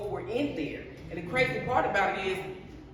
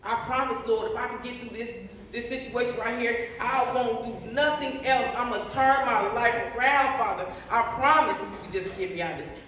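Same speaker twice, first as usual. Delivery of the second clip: desperate prayer. Retold or imitated. Woman in a jail cell praying to the Lord, pleading. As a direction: beg God to get you out of jail. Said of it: "all I kept saying is".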